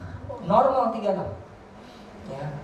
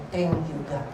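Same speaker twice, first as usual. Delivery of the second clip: low, soft retold thanks to God; hushed, grateful prayer; quiet prayer; 8 semitones lower, 8 dB quieter, slower than usual. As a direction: murmur it slowly, intimately to God. Retells own bedtime prayer.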